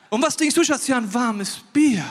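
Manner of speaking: laughing husband voice. Acted. Voicing the husband ordering.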